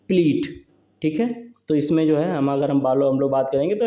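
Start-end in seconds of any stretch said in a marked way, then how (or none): 0.1-0.6 प्लीट alone, vowel held long; long stressed syllable. Shown as a demonstration. Teacher isolating the long syllable for students, प्लीट held. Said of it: "ये जो है long level है".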